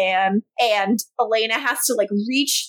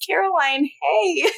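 higher, smiling hello; sweet, smiling greeting; 5 semitones higher than usual. Retold or imitated. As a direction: greet her sweetly with a smile in the voice. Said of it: "he smiles, and he says".

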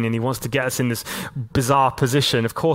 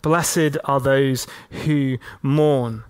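tender reading; much slower than usual. Shown as a demonstration. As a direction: let "Blessed" fall gently, each word drawn out. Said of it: "he goes even one step further".

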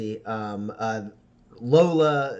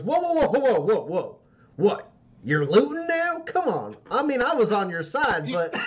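very high, loud string of whoas; put-on shrill woman protesting; alarmed protesting woman; 8 semitones higher, 4 dB louder than usual. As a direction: stop them in shocked disbelief. GM voices Michelle protesting looting.

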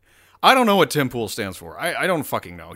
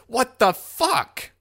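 slow, drawn-out high whine; hammed-up exasperation, much higher; mock lost Tim Pool; 10 semitones higher, 4 dB louder, much slower than usual. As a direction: stretch it out like a defeated man. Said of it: "You can hear it in his voice".

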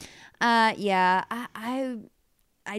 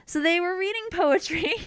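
high, singsong euphemism; teasing innuendo; 10 semitones higher than usual. Acted. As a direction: say it coyly, knowingly.

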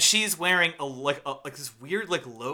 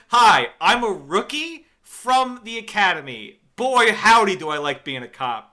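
mock eager rookie; 4 semitones higher, 7 dB louder than usual. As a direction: play a too-eager new cop. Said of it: "she comes out and says".

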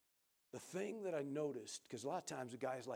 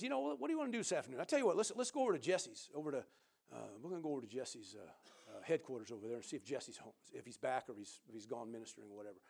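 excited invite; faster than usual. Retold or imitated. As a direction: rattle it off like an eager buddy. Preacher voicing friend Mike's invitation.

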